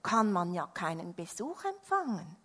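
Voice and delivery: exasperated rant, building in volume; loud storybook grumbling; shouted complaint. A narrator's reading. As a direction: list the faults loudly, stretching the last ones. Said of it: "schrie er".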